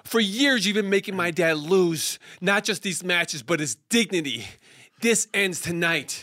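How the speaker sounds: hammy stage actor. Acted. Boy's dramatic villain speech.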